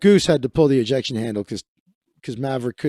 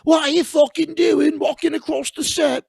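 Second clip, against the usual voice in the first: mock Christian Bale yell; 11 semitones higher than usual. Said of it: "Christian Bale was, like".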